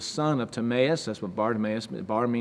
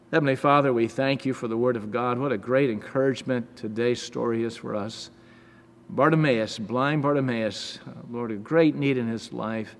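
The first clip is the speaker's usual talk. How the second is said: prayer. Acted. Leads closing prayer.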